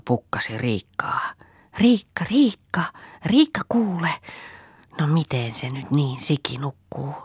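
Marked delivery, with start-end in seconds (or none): 1.8-7.1 whisper. Acted. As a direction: hiss her name so no one else wakes. Waking sister secretly at night. (kiireinen korkea kuiskaus)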